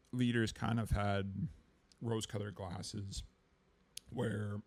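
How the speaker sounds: hoarse, voice giving out; losing voice. Real, not acted. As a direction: talk through a tired, hoarse throat. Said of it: "I'm losing my voice".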